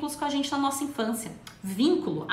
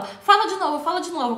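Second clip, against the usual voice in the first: higher, louder amused coaxing; teasing adult; 4 semitones higher, 4 dB louder than usual. Retold or imitated. An adult laughing at a child's mistake, teasing coax. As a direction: egg the child on to repeat it. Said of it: "aí o adulto vira pra você e fala".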